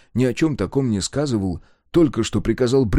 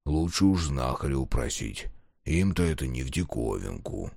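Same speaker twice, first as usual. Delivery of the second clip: quiet; 9 semitones lower, 7 dB quieter than usual. Acted. Fearful peasant lowers voice.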